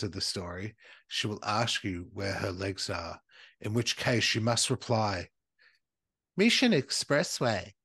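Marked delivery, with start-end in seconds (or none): 6.4-7.7 put-on Japanese accent. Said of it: "trying to say that in, like, a Japanese accent".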